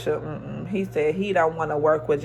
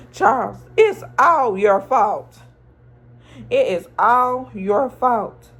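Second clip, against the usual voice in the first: a hint of a snapping wife, louder; 4 semitones higher, 4 dB louder than usual. Lucille blaming Charles, mildly imitated snapping. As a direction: throw the blame at him, mock snappy. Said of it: "she snapped on him".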